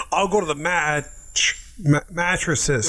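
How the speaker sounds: stumbling delivery. Retold or imitated. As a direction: stammer through mattresses. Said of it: "Deliver the line like that".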